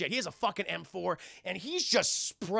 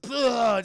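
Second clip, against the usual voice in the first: imitated spit; 5 semitones higher, 8 dB louder than usual. Imitates spitting blood and drool.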